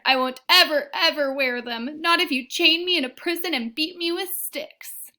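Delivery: put-on high, loud furious child; stubborn tantrum. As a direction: refuse with all her might. Kirsty sputtered.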